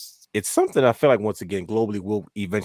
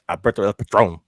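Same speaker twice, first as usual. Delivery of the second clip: Alberto's name in a rough mock Spanish accent; bad Spanish accent; 5 dB louder than usual. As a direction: ham up a terrible Spanish accent. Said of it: "That was a terrible accent".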